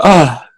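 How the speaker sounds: a long, audible real yawn. Real, not acted. Tired lecturer yawning late at night, real yawn. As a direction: let a yawn escape mid-lecture. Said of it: "quick yawn".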